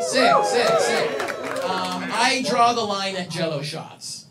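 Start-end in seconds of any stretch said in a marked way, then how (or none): 0.0-1.2 very high, squealed sick sick; mock squeaky cheer. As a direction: squeal it like a hyped partier.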